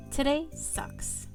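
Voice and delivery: slow, mildly angry pout; pouty anger. Acted. Heroine pouting as she leaves the cafe, mildly angry. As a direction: grumble slowly with a pout. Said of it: "I pout angrily".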